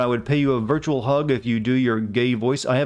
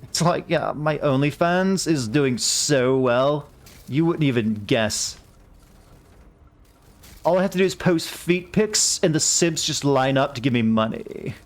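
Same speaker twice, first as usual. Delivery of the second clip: put-on slow, drawn-out valley girl; a hint of a bored valley girl; slower than usual. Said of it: "I'm just not Californian enough".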